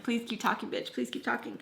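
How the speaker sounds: quiet mock threat under the breath; retold inner voice. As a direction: say it softly to yourself. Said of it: "in my head".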